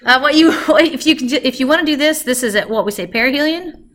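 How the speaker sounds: loud, laughing and still out of breath; breathless laughing. Real, not acted. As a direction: laugh it off while catching breath. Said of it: "I'm out of breath".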